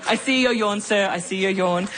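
ordinary delivery

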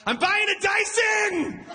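high, slow, proud yell; triumphant shout. Retold or imitated. Cashing out at the Vegas bar, triumphant shout. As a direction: announce it like a prize.

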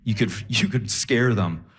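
low, earnest advice-giver; lightly voiced low, measured fan; audience member. Audience member advises comic on sleep talkers, low and earnest. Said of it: "and he goes".

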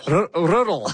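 rolled Scottish R in rural; Scottish accent. Retold or imitated. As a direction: rural with a burred R, Scottish style. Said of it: "saying rural in a very Scottish accent".

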